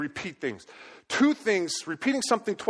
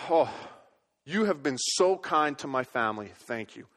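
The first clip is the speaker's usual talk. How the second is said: sincere thanks; 5 semitones lower than usual. Shown as a demonstration. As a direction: thank them gently from the heart. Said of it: "I might say to you".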